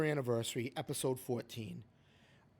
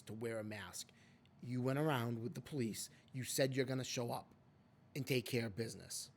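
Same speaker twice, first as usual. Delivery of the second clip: calm talk to Gina; 3 semitones lower, 5 dB quieter than usual. Pretend. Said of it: "this is how I would talk to her".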